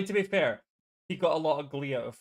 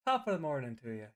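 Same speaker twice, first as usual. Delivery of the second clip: lightly voiced Irish greeting, a hint of Jacksepticeye; a mild Irish top of the morning; Jacksepticeye impression; 4 dB quieter, faster than usual. Player teasing friend with a lightly done Irish greeting. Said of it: "the Jacksepticeye".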